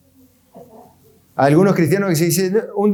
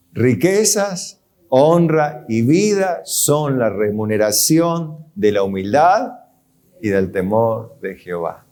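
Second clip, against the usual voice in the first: scripture reading; 3 semitones lower, slower than usual. Acted. Reading the verse slowly.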